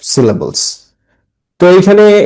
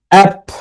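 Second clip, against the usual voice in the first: অ্যাপ alone on a higher beat; stressed syllable; 6 semitones higher than usual. Shown as a demonstration. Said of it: "হাততালি দিবে".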